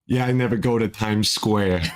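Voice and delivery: lightly voiced cartoon dad impression; a hint of a cartoon New Englander's voice; Peter Griffin. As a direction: do a loose take on a cartoon dad. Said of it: "I was just doing Peter Griffin".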